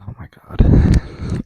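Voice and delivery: slow, breathy whispered exclamation; whispering. Real, not acted. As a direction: whisper it so nobody in the house hears. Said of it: "so I have to whisper".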